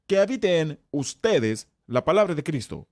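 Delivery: pause, then lean on "ustedes"; stress on ustedes. Shown as a demonstration. Teacher showing it is personal, stress on "ustedes". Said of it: "Ahora mira la siguiente frase".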